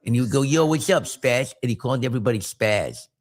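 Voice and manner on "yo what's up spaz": lightly voiced lisping bully, talking out the side; a hint of a side-mouth lisp; bully's lisp. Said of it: "he had this lisp like this".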